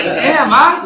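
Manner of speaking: high, laughing burst of amazement; a high, delighted gasp of awe; amazed laughing damn. Retold or imitated. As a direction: blurt it out, floored and laughing. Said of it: "I'm like".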